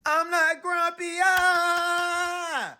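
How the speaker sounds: high, loud angry roar; furious monkey shout. Acted. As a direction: yell it, beating his chest. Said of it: "shouted Jim".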